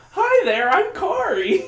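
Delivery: very high, perky character voice; Kari. Acted. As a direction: chirp a loud, squeaky hello in imitation. Imitates Kari introducing herself.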